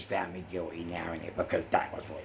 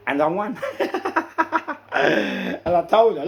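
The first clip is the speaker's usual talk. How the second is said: real laughter breaking through; laughing; 11 semitones higher, 9 dB louder than usual. Real, not acted. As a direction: laugh out loud over winning. Laughs about winning appeal.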